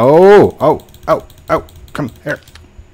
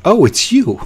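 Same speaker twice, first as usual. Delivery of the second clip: louder, higher, laughing through it; 4 dB louder than usual. Real, not acted. Greeting a friend who just showed up, laughing. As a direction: laugh as you recognize them.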